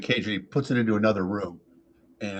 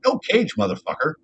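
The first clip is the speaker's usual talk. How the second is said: lightly voiced parrot, pitched up; a hint of a defiant parrot; cussing parrot; 6 semitones higher than usual. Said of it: "The parrot's like".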